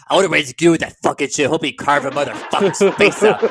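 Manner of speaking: Nick Gage. Retold or imitated. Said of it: "Nick Gage's like".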